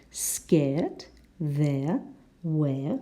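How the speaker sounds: "scared", "there", "where" with a clear AIR sound; air vowel. Shown as a demonstration. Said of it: "we have air".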